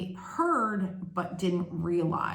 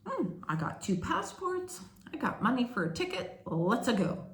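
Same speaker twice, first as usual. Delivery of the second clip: high, chirpy, carefree "Let's-a go"; hammed-up breezy game-hero voice; carefree cartoon voice; 5 semitones higher than usual. Mother recalling her carefree move abroad, chirpy high mock voice.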